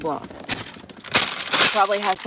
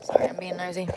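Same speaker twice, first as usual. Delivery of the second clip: whispering. Real, not acted. Quiet apology while filming.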